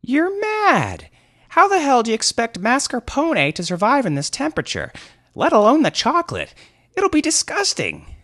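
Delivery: very high, loud, screaming rant; unfettered anger. Acted. Thief turning on his companions, furious. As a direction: rage at them at full pitch. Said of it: "there was unfettered anger in his voice".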